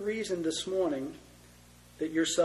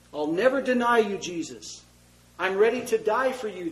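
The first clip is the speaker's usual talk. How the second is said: bold vow; 4 semitones higher, 6 dB louder than usual. Acted. Peter boasting loyalty to Jesus.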